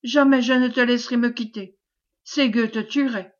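insistent pleading, mildly desperate; feigned despair. Acted. Wife forbids husband to leave her, feigned despair. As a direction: hold him back with a put-on desperate plea. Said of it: "en feignant un subit désespoir".

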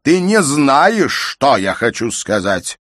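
slow, loud, high-pitched rage at her; furious shout. A narrator's reading. Father shouts at his insolent daughter furiously. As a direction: hurl the insult at her.

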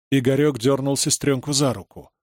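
usual speaking voice

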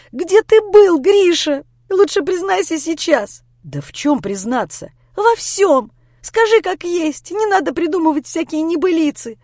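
high, loud crying demand; tearful interrogation. Acted. Lera pressing Grisha to confess, crying and angry. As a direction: press him hard through tears.

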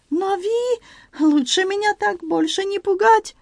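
put-on high, slow French-accented broken Russian; excited Frenchman in broken Russian, high; Antoine voice. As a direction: play the flustered Frenchman, pitched high. Antoine speaks.

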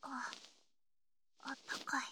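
soft breathy whisper of comfort. Acted. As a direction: murmur it barely aloud. Whispers in the warm futon.

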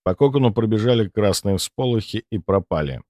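plain reading voice

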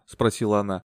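plain reading voice

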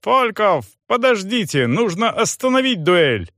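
high, breathless and halting; out of breath. Acted. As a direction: gasp it out after running. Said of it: "тяжело дышал и сбивчиво говорил". (задыхаясь, сбивчиво)

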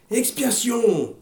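cri aigu et très lent, qui retombe; crié en chœur. A narrator's reading. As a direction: clamer le mot comme une foule. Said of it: "crièrent-ils à l'unisson". (la foule crie à l'unisson)

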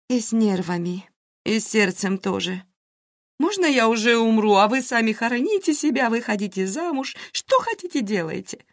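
a hint of a dramatic, worried friend; anxious friend. Karina voiced, anxious chatter.

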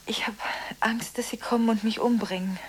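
whispered fear; fearful whisper. Acted. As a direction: whisper it, frightened. Alone, fearful.

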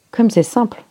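mildly acted disgust at a letdown. A narrator's reading. Listener hears how simple Poirot's trick was, disgusted. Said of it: "dit Colline dégoûtée".

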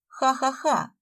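mock laugh, icy and unamused. A narrator's reading. Sveta mocking Fyodor's joke with an icy laugh. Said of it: "ледяным тоном сказала Света".

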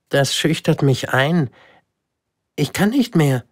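put-on high, flustered child's voice; blushing, flustered protest; embarrassed little prince. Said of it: "wurde ganz rot". (verlegener kleiner Prinz, hoch)

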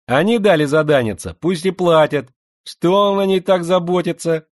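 slushy sh for s. Acted. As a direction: lisp every s into a slushy sh. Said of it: "своим шепелявым голоском".

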